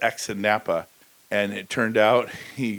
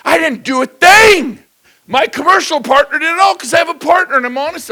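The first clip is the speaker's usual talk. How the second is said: proud loud boast; 14 dB louder than usual. Acted. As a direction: announce it grandly. Mock-proud boasting to crowd.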